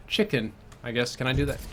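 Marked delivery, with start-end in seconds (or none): 0.1-0.5 a quick, tentative British-accent "Chicken"; first attempt at a British-accent "Chicken". Shown as a demonstration. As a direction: try "Chicken" in a light British accent, not fully committed. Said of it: "Say chicken in a British accent".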